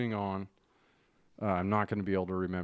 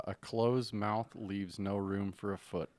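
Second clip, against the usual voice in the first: slow quoted saying; slower than usual. Shown as a demonstration. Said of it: "What did you say the other day?".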